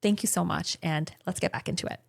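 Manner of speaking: brisk host plug read; podcast ad read. Acted. Mid-show subscribe plug.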